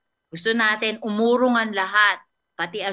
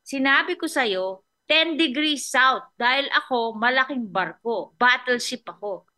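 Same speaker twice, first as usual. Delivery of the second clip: threatening captain; 2 semitones higher than usual. Retold or imitated. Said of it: "Sabi niya".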